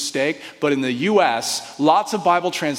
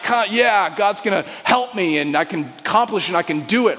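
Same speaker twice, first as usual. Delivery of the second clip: peppy inspirational; 3 semitones higher than usual. Pretend. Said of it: "kind of a peppy, inspirational, like".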